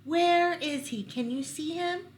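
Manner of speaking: high, anxious doe voice; frightened doe. Acted. Frightened doe stamping and asking where the stranger is, anxious. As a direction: ask it with rising fear. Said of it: "The frightened doe stomped".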